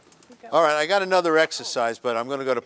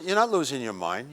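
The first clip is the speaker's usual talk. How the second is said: ordinary talk, nothing marked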